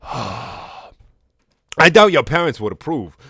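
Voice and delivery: slow, loud, exaggerated Cockney; hammed-up Cockney Garnet; Cockney accent. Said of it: "here's a Cockney accent for Garnet".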